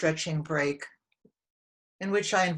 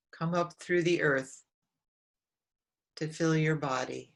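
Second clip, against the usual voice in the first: calm, measured meditation guide with long pauses; unhurried guidance, phrase by phrase; guided meditation. Real, not acted. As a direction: lead them gently inward, leaving long silences between phrases.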